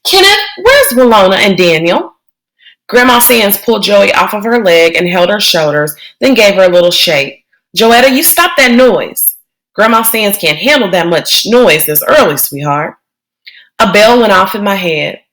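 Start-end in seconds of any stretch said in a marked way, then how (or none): 0.0-2.1 put-on higher, fussing old grandmother; an old woman scolding the noisy kids; startled grandma, calling out; Grandma Sands. Grandma questions Kenny. 7.8-13.0 put-on an old woman scolding the noisy kids; startled grandma, calling out; Grandma Sands. Grandma calms Joey.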